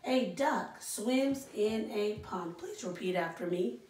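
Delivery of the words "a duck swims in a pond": slow read aloud. Shown as a demonstration. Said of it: "The next sentence we have is".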